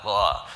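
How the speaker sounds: short, loud imitated retch; quick hammed-up "bleugh"; mock dry heave. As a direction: pretend gag at a bad smell. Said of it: "dry heaving".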